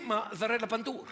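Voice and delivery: mock Italian accent; Italian painter voice, lightly done. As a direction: put on a hammy Italian accent. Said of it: "l'accent italien, plus ça met, c'est difficile à faire".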